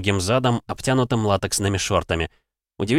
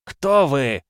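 crowd answering; 5 semitones higher than usual. Acted. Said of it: "откликнулись зрители".

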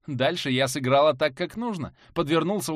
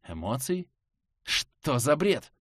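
shaman voice; slower than usual. Acted. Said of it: "Не выдержал шаман".

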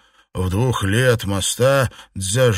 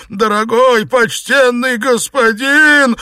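wailing; 12 semitones higher, 7 dB louder than usual. Acted. Xuepan wails at Liu Xianglian as he is punched. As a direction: howl it out under the blows. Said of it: "завопил Сюэпань".

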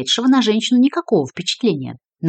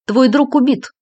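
curt; 7 semitones higher, 5 dB louder, slower than usual. A narrator's reading. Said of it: "коротко сообщил Коробов".

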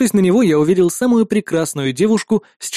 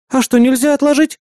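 high, louder hopeful plea; hoping he'll say yes; 9 semitones higher, 4 dB louder than usual. Acted. Sister hoping her brother will stay with her, pleading. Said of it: "понадеялась она".

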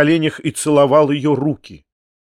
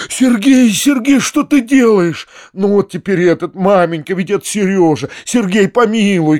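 higher, louder pleading call to Sergey; pleading cry; 7 semitones higher, 4 dB louder than usual. A narrator's reading. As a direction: call out, begging him to stay. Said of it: "кричал он". (дядя кричит, умоляя Сергея остаться)

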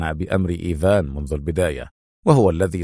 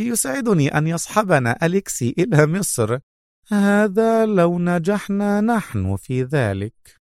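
nervous; 9 semitones higher than usual. A narrator's reading. Mona answering her companion with nervous unease. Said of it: "ضحكت منى بتوتر".

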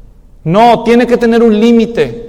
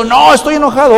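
stubborn sulk; 6 semitones higher, 3 dB louder than usual. Acted. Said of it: "stubborn angry reply".

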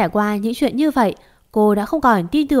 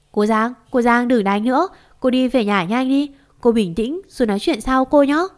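lightly acted, slightly raised plea; pleading to calm down; 2 semitones higher than usual. Daughter-in-law urging the neighbour to stop fighting, pleading. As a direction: coax her into stopping.

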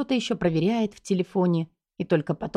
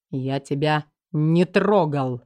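restrained anger; 4 semitones lower, slower than usual. A narrator's reading. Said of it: "стараясь сдерживать гнев".

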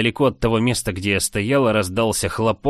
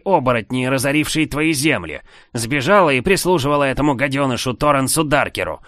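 higher, louder, dripping sarcasm; mocking sneer; 6 semitones higher, 4 dB louder than usual. A narrator's reading. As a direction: sneer every word at him. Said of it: "Ехидство в голосе незнакомца было сверх меры". (ехидно, с издёвкой, выше и громче)

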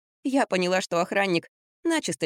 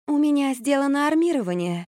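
slightly embarrassed; 8 semitones higher than usual. A narrator's reading. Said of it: "чуть смущённо призналась Марфа".

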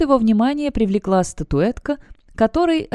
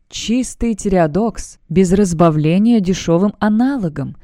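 salesman praising wares; 3 dB louder than usual. Acted. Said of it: "хвалил торговец".

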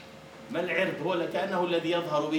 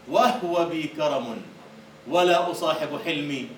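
slow proud declaiming; poem recital; slower than usual. Acted. Teacher reciting Mutanabbi to the class, slow and proud. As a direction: recite it with dignity.

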